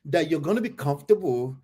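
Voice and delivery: teasing imitation of the storyteller's plea; imitating the woman. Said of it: "He said".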